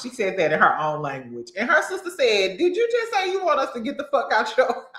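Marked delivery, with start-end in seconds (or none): 2.6-4.8 retold indignant question. Acting out the sister's indignant question.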